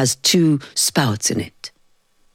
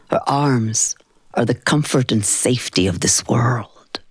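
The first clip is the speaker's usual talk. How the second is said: whisper; 4 semitones lower than usual. Acted. A grandchild remembering her grandmother's arms, whispered. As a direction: breathe it out like a secret comfort. Tender memory of grandmother's embrace.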